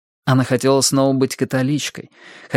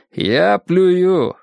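contemptuous; 8 semitones higher, 4 dB louder than usual. A narrator's reading. Roper's quoted contempt, raised voice.

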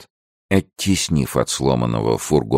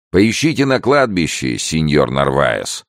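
raised, higher call slowing on the name; jailer's advice; 4 semitones higher, 4 dB louder than usual. Acted. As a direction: call advice after someone leaving. Jailer's assistant calls mocking advice.

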